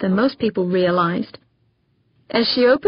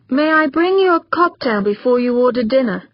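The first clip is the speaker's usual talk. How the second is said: polite robot waiter, hint of British; smooth, courteous machine voice with a touch of upper-class British; 4 semitones higher, 3 dB louder than usual. A narrator's reading. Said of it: "in a mellow baritone voice that bore just a hint of an upper-class British accent".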